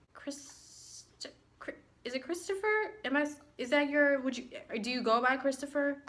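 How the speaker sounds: lightly mocking a faltering teacher; mock unsure professor. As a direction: stumble over the name, unsure. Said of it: "she was like".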